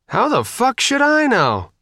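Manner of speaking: high-pitched desperate retort; desperate and exasperated, voice pitched right up. A narrator's reading. Faith, asked where to put the boat, desperate. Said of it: "She sounded desperate".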